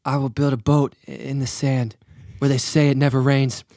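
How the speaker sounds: a hint of moody Anakin; Anakin Skywalker. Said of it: "Do Anakin".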